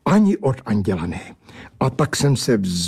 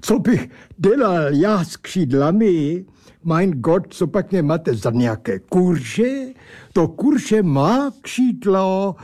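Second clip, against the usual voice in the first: higher, indignant German-tinged oddball; mock German accent, put out; German-accented angel; 5 semitones higher than usual. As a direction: scold him with German flair. Angel character speaks.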